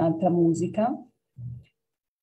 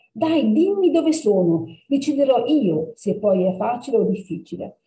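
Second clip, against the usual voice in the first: higher, pleading and impatient; 5 semitones higher than usual. Acted. Impatient girl pleads with the cat. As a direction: push him to tell you now. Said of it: "sempre più impaziente di sapere".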